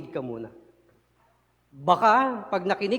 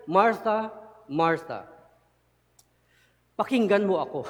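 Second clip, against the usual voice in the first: caring call. Acted. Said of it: "it's a sign of affection, concern, care".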